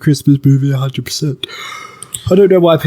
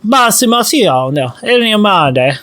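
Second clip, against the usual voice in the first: fake Italian; 5 semitones higher than usual. Shown as a demonstration. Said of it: "try to speak Italian".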